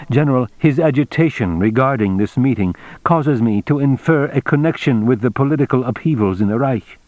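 a hint of a careful official reporting upward; Mr Tagomi, deferential. Tagomi reports his inference to the general, lightly voiced formality.

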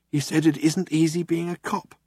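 lightly voiced, flat retelling of the cop's line; Zaphod repeating. A narrator's reading. Zaphod relaying the cop's words to Ford, dry. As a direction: pass the line on, deadpan. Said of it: "said Zaphod".

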